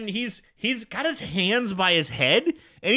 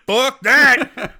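laughing shout; 5 semitones higher, 8 dB louder than usual. Retold or imitated. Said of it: "Matt just go".

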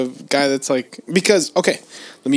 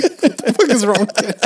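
mock indignant coworker; 6 semitones higher than usual. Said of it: "you'd be like".

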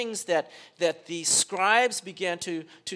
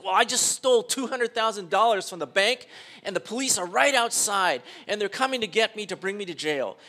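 mock-panicked, raised confession; urgent confession; 3 semitones higher, 5 dB louder than usual. Bank thief confesses to pastor with police outside, urgent confession. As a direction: blurt it out as if police are coming.

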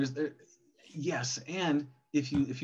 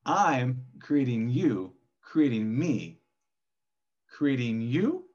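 slow firm intention; 3 dB louder, much slower than usual. Acted. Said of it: "how we deliver it creates".

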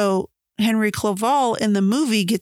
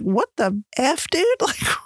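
squeaky, laughing whisper of disbelief; a friend cracking up in shock, high and breathy; 6 semitones higher than usual. Retold or imitated. Friend shocked at Victor's lab.

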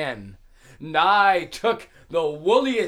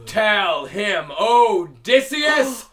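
proud shouted taunt; triumphant boast; 4 semitones higher, 5 dB louder than usual. Acted. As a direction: boast your name to the giant. Odysseus boasts to Cyclops.

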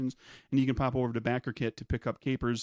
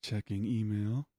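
robot voice; 4 semitones lower, 6 dB quieter than usual. Pretend. Mock computer status readout.

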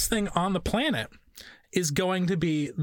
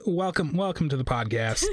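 mock host intro; 3 semitones lower than usual. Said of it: "this is a great first impression of me".

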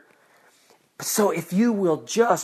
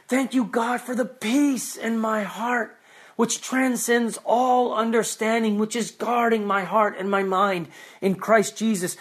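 prayer of thanks. Pretend. Believer praying thanks to God, earnest and fervent. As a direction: pour out thanks like a real prayer.

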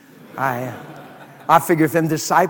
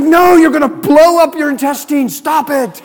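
playful warning; 9 semitones higher, 7 dB louder than usual. Retold or imitated. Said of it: "And I was like".

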